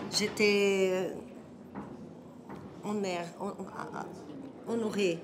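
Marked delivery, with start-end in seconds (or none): 2.8-5.2 Brazilian accent in French, halting; French with a Portuguese accent; foreign accent in french. Real, not acted. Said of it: "mais mon français". (accent brésilien en français)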